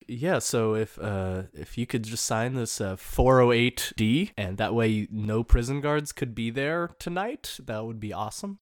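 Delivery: understated, hesitant office official; lightly voiced CIA paper-pusher asking for a form; bureaucratic. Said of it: "being very bureaucratic about it".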